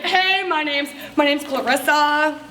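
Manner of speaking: lightly put-on, drawn-out self-introduction; showy introduction. Guest introducing herself at a party, mildly showy. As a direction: stretch the name out with a little flourish.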